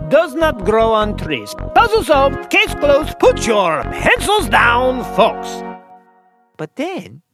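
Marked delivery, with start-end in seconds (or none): 1.7-5.6 triumphant. Acted. Triumphant declaration of solving.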